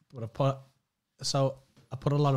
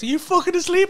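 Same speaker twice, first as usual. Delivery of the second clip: retold angry shout; 10 dB louder than usual. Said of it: "she went".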